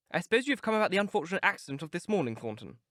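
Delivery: a hint of a nervous young gentleman, quick; Dorian's worry slips through quickly; lightly voiced Dorian, uneasy. Dorian asks the keeper about the accident, a touch uneasy.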